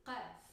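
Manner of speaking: "Qaf" with the K made far back in the throat; deep guttural Arabic "Qaf". Shown as a demonstration. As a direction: push the first sound of "Qaf" down the throat. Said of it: "very guttural, further down the throat".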